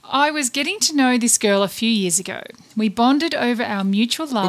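middle-pitched, neither male nor female; ambiguous, mid-range reading voice; androgynous voice. Acted. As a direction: read it in an in-between register. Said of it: "could have been male or female".

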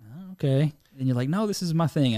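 usual speaking voice

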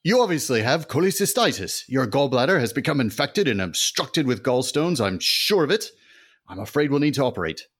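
high, loud hammy doctor voice; earnest doctor son. Acted. Son tells his mother he must operate, high and hammy. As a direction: deliver the diagnosis with melodrama.

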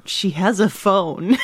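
slow, giggling through it; laughing. Real, not acted. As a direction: laugh while quoting. Quoting co-host, laughing.

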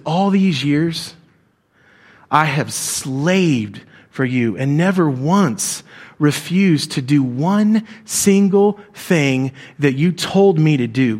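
slow, bitter, every word dragged out; resentful son's complaint. Acted. Older son confronting his father, slow and bitter. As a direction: lay out years of grievance to his father. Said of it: "never even talked to his dad like this before".

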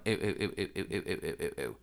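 low, muted string of ews; grossed out. Retold or imitated. Drew down on the ground by the bed, grossed out. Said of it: "He is grossed out".

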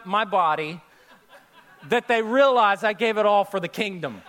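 chuckling as he says it; amused, half-laughing; laughing through it. Real, not acted. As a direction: let a laugh break the punchline. Joking about dying with the money.

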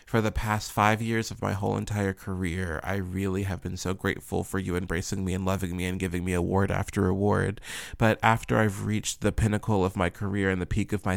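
mock apology. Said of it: "it's like".

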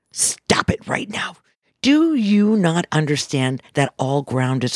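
hushed, slow, stern warning; a whispered scolding from Mother Earth. Retold or imitated. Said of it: "she came back and she says".

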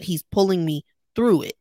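THROUGH set off as the key word; stress on THROUGH. Real, not acted. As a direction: lean on "through" to make the point. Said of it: "keep putting emphasis on the word through".

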